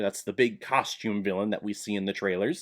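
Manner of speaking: ordinary talk, nothing marked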